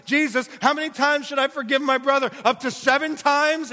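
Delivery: a self-pleased disciple, voice pushed up high; boastful Peter. Acted. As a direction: sound proud of your own generosity. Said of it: "And Peter says".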